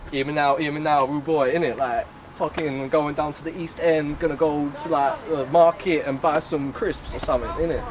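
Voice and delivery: lightly put-on Cockney rude-boy patter; casual mock Cockney chatter; Cockney accent. Shown as a demonstration. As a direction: show off your Cockney accent, rambling casually. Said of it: "Let's hear it then".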